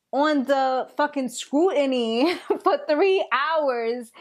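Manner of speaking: slow, amused disbelief; chuckling as she vents; laughing. Acted. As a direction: laugh through the words, slowly. Laughing while voicing Keisha's complaint.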